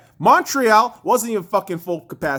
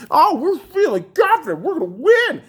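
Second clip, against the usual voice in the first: higher, cocky mock-player voice; mock overconfidence; 7 semitones higher than usual. Rant host mocks players feeling confident, cocky imitation. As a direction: imitate a team too sure of itself.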